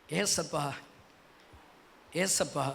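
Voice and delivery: soft, low tender call of the name; hushed calling. Real, not acted. Preacher calling to Jesus, soft and low. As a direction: breathe the name softly, almost pleading.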